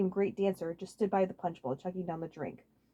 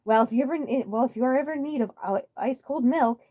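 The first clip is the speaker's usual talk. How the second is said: suave; 6 semitones higher, 5 dB louder than usual. Acted. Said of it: "he said suavely".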